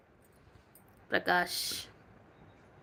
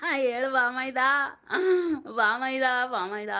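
laughing through the words; real tickled laughter; amused laughing. Real, not acted. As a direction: giggle while repeating a funny nickname. Amused by viewer's word bamaida.

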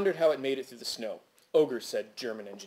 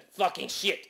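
exaggerated Quebecois accent, raised pitch; light caricature of a French-Canadian landlord cursing; Maury Villepen; 5 semitones higher, slower than usual. Narrator quotes the landlord's usual greeting, Quebecois accent. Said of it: "and said".

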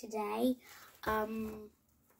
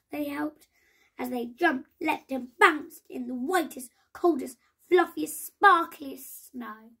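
exuberant narration; 3 semitones higher, 7 dB louder than usual. A narrator's reading. Telling the children how they played, with delight. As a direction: bounce through the words with delight. Joyful playing in snow.

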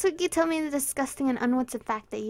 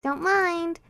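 fake Japanese accent; 6 semitones higher, 4 dB louder than usual. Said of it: "said it with a fake Japanese accent".

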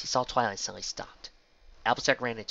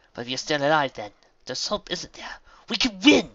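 hopeful build; 6 semitones higher, 8 dB louder than usual. A narrator's reading. Mayor rallying hope.

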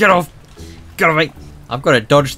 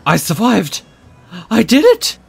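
high excited squeal; 9 semitones higher, 5 dB louder than usual. Real, not acted. Fish survived the cars, squealing in triumph. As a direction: squeal with relief.

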